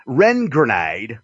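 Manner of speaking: slow attempt at a Southern drawl; imitated Southern accent. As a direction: draw out "Ren grenade" in a Southern accent. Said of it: "I can't say it like he says".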